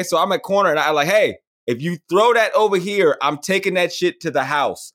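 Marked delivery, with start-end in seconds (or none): 1.1-4.9 trash talk. Retold or imitated. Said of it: "talking so much trash".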